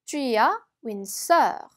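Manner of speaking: slow, careful French model sentence; slow teacher's French read-aloud. Shown as a demonstration. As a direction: read it slowly like a language tape.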